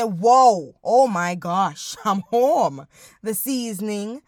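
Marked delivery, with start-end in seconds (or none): 0.0-2.9 mock delighted gasp. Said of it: "makes me say".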